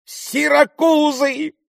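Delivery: captain crying out in confusion; bewildered cry. A narrator's reading. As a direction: shout the word in disbelief. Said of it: "вскричал штабс-капитан".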